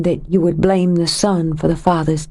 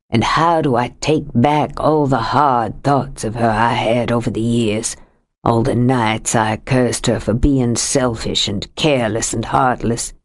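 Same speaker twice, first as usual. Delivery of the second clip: lightly voiced older man, lower, heavy with grief; a lightly lowered voice for a grieving husband; grieving Sam; 5 semitones lower than usual. Sam's grief-stricken lines.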